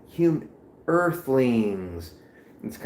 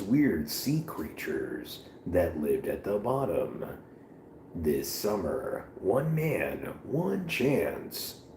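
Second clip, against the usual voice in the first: movie trailer voice; 6 dB quieter than usual. Pretend. Mock movie trailer intro.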